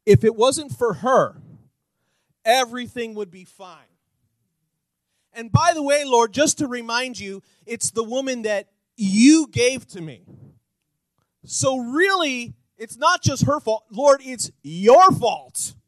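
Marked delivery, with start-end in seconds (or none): 5.3-15.7 louder, building indignant excuse; slowing and loud on your fault; acted Adam blaming. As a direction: argue your innocence to God.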